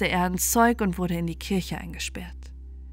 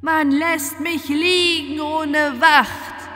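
slow, loud, much higher ghostly howl; 6 semitones higher, 7 dB louder, much slower than usual. A narrator's reading. The ghost, left unguarded, howls a curse, slow and loud. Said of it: "schrie und heulte das Gespenst".

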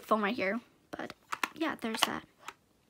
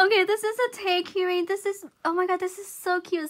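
high, loud scream settling into gushing; thrilled squeal; 7 semitones higher, 10 dB louder than usual. Real, not acted. Discovering a keyring from her friend, thrilled squeal. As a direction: squeal with delight, then gush through laughter.

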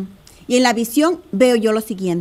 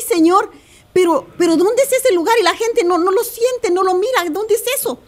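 pleading wonder; 5 semitones higher than usual. Retold or imitated. Retells pleading prayer after vision.

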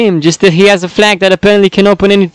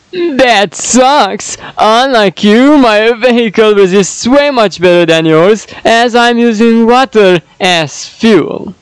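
character voice; 3 semitones higher than usual. Acted. Character line retake.

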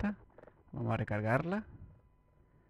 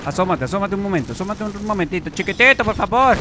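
higher, louder sweet-talking bait; coaxing taunt; 7 semitones higher, 7 dB louder than usual. Real, not acted. Gamer coaxing a sniper to peek out. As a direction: lure the enemy out teasingly.

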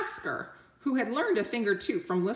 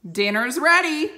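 higher, loud call across the cave; 8 semitones higher, 8 dB louder than usual. Acted. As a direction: call him to dinner from afar. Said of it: "he called".

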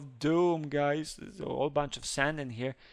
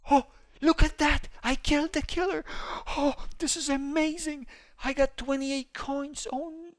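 thrilled shout of victory; triumphant; 11 semitones higher than usual. Real, not acted. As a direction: celebrate the kill. He killed the killer.

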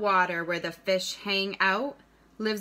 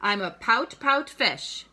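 bouncy picture-book rhyme, punching each pout; reading to children; 3 semitones higher, 3 dB louder, slower than usual. A narrator's reading. Teacher reads a rhyming fish book to students, read-aloud lilt. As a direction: read it aloud with a lilting beat.

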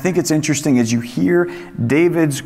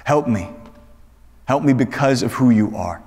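humble plea; slower than usual. Retold or imitated. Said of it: "He is saying".

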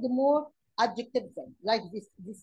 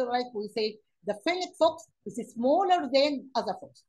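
slow dictation; 4 dB louder, much slower than usual. Shown as a demonstration. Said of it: "teacher reading example sentence".

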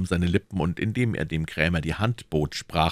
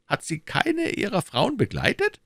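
higher, pressing questions as the Cardinal; Cardinal questioning. Acted. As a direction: interrogate his agent coolly. (der Kardinal, verhörend)

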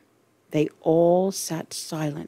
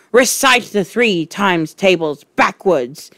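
loud barked command; 2 semitones higher, 4 dB louder than usual. Acted. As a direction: bark the order at him. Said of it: "the Trunchbull barked".

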